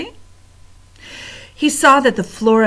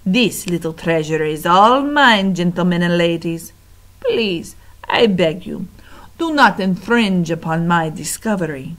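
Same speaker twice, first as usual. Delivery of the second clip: rat voice; 3 dB louder than usual. Acted. Rat claims the mouse.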